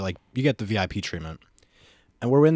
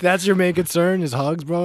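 high, loud, laughing disbelief; 9 semitones higher, 6 dB louder than usual. Real, not acted. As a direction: laugh it out, slower. Laughing at friend.

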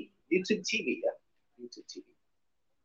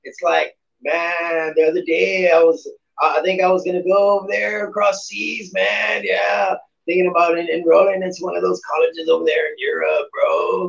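loud, bro-ish party guy; frat guy voice; 2 semitones higher, 3 dB louder than usual. Retold or imitated. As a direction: hype frat bro calling out. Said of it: "He, he's like the frat guy".

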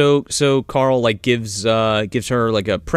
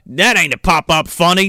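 a hint of Australian, leaning on "That"; Paul Hogan impression. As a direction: dismiss it Crocodile Dundee style and hit "That". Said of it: "It's Paul Hogan".

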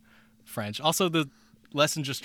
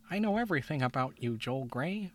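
Kermit; 5 semitones higher than usual. Retold or imitated. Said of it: "he pretty much says".

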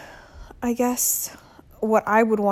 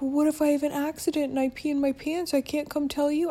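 put-on child's voice; 6 semitones higher than usual. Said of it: "She's like".

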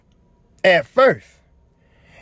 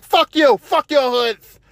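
higher-pitched mock cursing; retold angry outburst; 5 semitones higher, slower than usual. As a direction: quote his parting curse with heat. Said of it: "then he lost it".

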